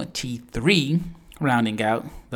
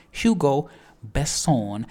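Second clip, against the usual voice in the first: hammed French accent; 2 semitones higher, slower than usual. Shown as a demonstration. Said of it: "a little too much fun with that".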